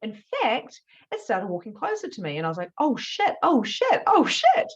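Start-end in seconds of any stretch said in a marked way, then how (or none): 2.8-4.7 each "oh shit" higher and louder, panic building; rising panic. Retold or imitated. Facing the hooded figure in the hallway, panic building to a cry. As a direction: spiral from alarm into full-blown panic. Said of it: "absolutely freaking out".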